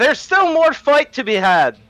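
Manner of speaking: acted shouting. Calling the rest of the group over in character: in-character shout. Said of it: "he shouts over to the rest of the group".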